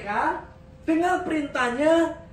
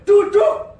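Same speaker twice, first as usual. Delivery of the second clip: even louder, sharper shout of sit down; 8 semitones higher, 12 dB louder than usual. Retold or imitated. Parent shouting louder after the child refuses to sit. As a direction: raise the voice further to force obedience. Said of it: "suaraku lebih kenceng".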